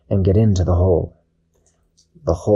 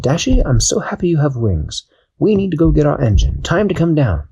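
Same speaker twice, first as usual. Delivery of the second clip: higher, brisk captain voice; Captain Barnacle; 6 semitones higher than usual. Acted. Captain calling Dashi back down, brisk higher voice. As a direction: call her down cheerfully but firmly.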